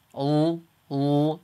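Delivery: "l" as at the start of "loser"; English L. Shown as a demonstration. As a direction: hold the English "l" sound. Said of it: "that's the noise we start off with".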